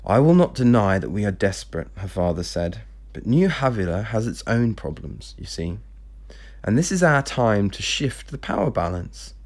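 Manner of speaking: measured storytelling, characters lightly voiced; story narration. A narrator's reading. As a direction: read the novel aloud with lightly acted dialogue. Reads novel manuscript aloud.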